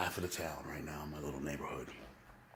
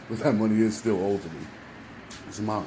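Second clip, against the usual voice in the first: loud defiant; 3 semitones higher, 8 dB louder than usual. Real, not acted. After the laugh, defiant.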